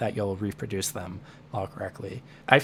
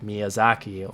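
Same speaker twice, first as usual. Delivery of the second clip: Miyazaki stressed on za, English style; natural English stress; slower than usual. Shown as a demonstration. Teacher gives a more natural English stress pattern. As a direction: put the weight on the za of Miyazaki. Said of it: "more natural stress patterns in English".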